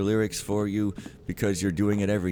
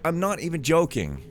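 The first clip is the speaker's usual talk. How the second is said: loud, high, fed-up call; exasperated shout; 9 semitones higher, 6 dB louder than usual. Real, not acted. Player telling game characters he's not joking, exasperated. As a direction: call them out loudly, out of patience.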